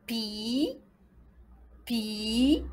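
"Pi" with a long i, rising at the end; syllable demonstration. Shown as a demonstration. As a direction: model "Pi" drawn out with an upward glide. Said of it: "On continue".

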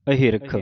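ਅਹਿਰਖ with ਅ split off, then ਹਿ ਰਖ; separated syllables. Shown as a demonstration. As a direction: say ਅ apart, then ਹਿਰਖ. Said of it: "ਐੜਾ ਵੱਖਰਾ ਕਰ ਦੇਣਾ ਹੈ".

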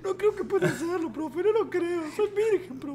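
put-on high, bashful kid voice; kid pupil. Virgin kid doubting himself to teacher, high bashful voice. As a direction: protest small and high as the kid. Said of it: "yo soy el pibe".

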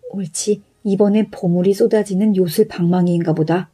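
fast, hushed greedy muttering; sly innkeeper. Acted. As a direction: gloat quickly under your breath. Thief gloats over stolen club.

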